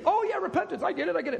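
dismissive know-it-all. Acted. Listener brushing off the preacher's word, mock dismissive. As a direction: imitate someone breezily claiming to get it. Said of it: "people think they".

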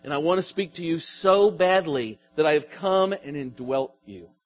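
a hint of God's tender voice; voicing God. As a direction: speak as God, gently and intimately. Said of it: "You hear what God's saying?".

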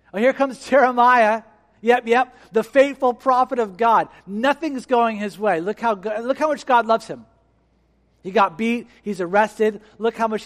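mock him like a taunting crowd; sarcastic mockery. Mocking crowd jeering at Jeremiah.

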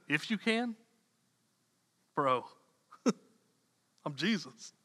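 amused disbelief. Retold or imitated. Jesus incredulous at doubting father.

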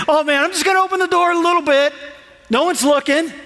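quick, high, sly voice of someone giving in; tempted inner voice. Retold or imitated. Preacher voicing a churchgoer tempted by sin, quick and sly. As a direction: sneak the thought out fast and high, like no one's watching. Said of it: "and we think".

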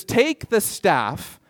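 slow, deliberate divine instruction; slow command. Acted. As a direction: stretch each word of the order. Voicing God's command to Moses.

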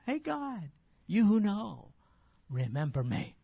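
Jeremiah mockingly hailing God, pitch up; waving at God. Jeremiah waving to get God's notice, mock call. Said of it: "So he's waving to God".

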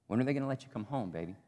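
a mother gently asking her son in prison; mother's voice. Acted. Mother asks her jailed son when he'll come home, softly.

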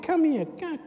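high, loud calling to come over. Acted. Jesus calling his disciples, loud call. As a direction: beckon them in from afar.

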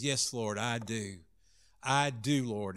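very soft, low answer; humbled reply. Acted. Disciple answering Jesus's third question, hushed and humble.

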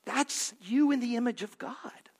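hushed, intimate whisper. Acted. Pastor whispering to the congregation about God's image. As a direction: breathe it to the congregation. Pastor softens to tell listeners.

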